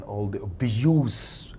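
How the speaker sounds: "abuse" said slowly and weighted, falling; stress on abuse. Real, not acted. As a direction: lean hard on "abuse", slow. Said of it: "I would like to use that word again".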